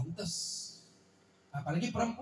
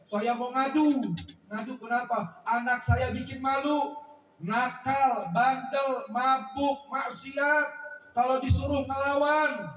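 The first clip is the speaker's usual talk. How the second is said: aggrieved father; 4 semitones higher, 3 dB louder, slower than usual. Acted. Father complains about his son.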